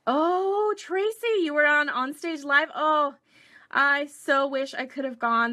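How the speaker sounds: high, loud, thrilled exclamation; excited. Real, not acted. Excitedly telling viewer Tracy she was on stage. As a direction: gush over a viewer's big news.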